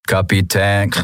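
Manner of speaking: leicht verfremdet, ruhig gesprochen: „Kapitän“; „Kapitän“ wie aus einem Apparat, ohne Nachdruck; Maschinenstimme. Acted. Schattenkaiser meldet sich ein letztes Mal. (der Schattenkaiser ruft „Kapitän“ mit Maschinenstimme)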